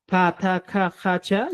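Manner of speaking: "pa, ta, ka, ja, cha" with a light puff of air on each consonant; ligera exhalación. Shown as a demonstration. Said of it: "se pronuncian con una ligera exhalación". ("pa, ta, ka, ja, cha" aspiradas, con aire)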